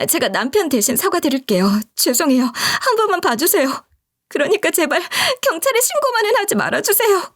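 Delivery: high, desperate pleading; earnest begging. A narrator's reading. A wife begging the victim on her husband's behalf, high and desperate. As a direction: beg with everything you have. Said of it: "진짜 정성을 다해 비는".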